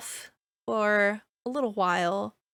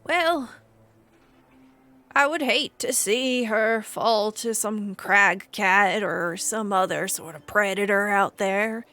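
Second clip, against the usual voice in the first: lightly voiced stable master making an offer; a hint of a haggard stable hand, pleading for the animal; 4 dB louder than usual. Stable master offers a traveler a trade, lightly voiced haggard man. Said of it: "And the man looks to you and says".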